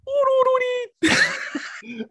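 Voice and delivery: very high wordless silly squeal; imitated mascot noise. Showing a pal the noises it makes, squeaky imitation. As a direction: squeak out a string of high cartoon syllables. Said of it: "it's just the noises it makes".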